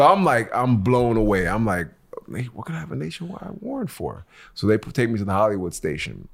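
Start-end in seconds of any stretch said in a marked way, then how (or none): 2.3-4.3 high, pleading disbelief; mock stunned protest, pitched up; arrested man asking the cop, incredulous. Retold confused protest.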